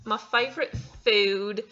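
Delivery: slow, put-on British accent. Vlogger answering the food question in a put-on British accent. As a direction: stretch it out in an attempted British accent. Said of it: "your best British accent".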